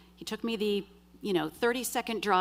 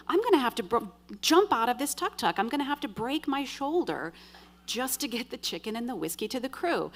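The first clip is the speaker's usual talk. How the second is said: higher-pitched, incredulous dread; retold alarmed realization; 4 semitones higher than usual. Passenger planning to jump from tuk-tuk, alarmed. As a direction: think it aloud, pitched up in disbelief.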